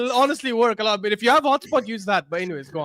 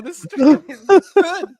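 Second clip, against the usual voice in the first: excited shout; 7 semitones higher, 6 dB louder than usual. Real, not acted.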